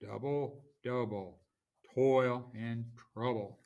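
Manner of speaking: falling strong-weak beat on "Double, double, toil and trouble"; trochaic stress. Shown as a demonstration. Teacher reciting the witches' cauldron line, "Double, double, toil and trouble" stressed trochaically. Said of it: "where you have a stressed syllable followed by an unstressed".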